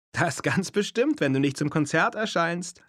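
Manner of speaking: hoch und langsam, leicht lachend; spöttisch-heiter antworten; lachend gesagt. Acted. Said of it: "lachte Erli". (Erli neckt den kranken Freund mit leisem Lachen)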